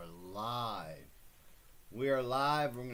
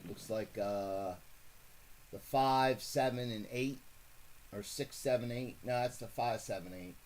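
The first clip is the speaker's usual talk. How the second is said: casual live play-by-play of horse positions; light track-announcer commentary; race call. Acted. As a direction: read off the field as they round the turn. Calls the second race replay.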